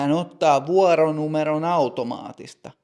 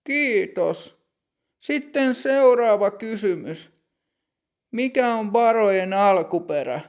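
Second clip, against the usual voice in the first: put-on higher, measured voice of a strict older clerk; stern bank clerk; 7 semitones higher than usual. Older bank clerk greeting customer Matti, stern and higher.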